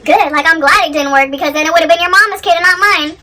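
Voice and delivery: mock telling-off in one quick run; imagined angry retort, pushed out firmly; going off on her. Imagining the wife snapping back at her partner, going off. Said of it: "instead of going off on her".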